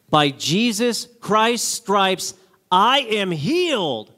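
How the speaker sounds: slow, deliberate declaration; slow mantra. Retold or imitated. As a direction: spell out the mantra slowly. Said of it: "Say this every day".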